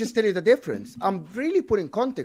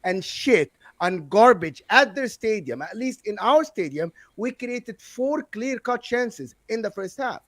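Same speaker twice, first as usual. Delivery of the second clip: scornful, heated tirade; emphatic, indignant fan rant; fired up; 2 semitones higher than usual. Real, not acted. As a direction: tear into them in defense of your club. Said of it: "he's, he's fired up".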